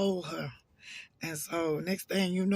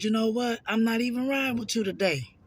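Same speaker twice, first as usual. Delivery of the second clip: higher and louder, fed up; angry retort; 4 semitones higher, 3 dB louder than usual. Retold or imitated. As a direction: throw it back at her and walk away. Storming off after the argument.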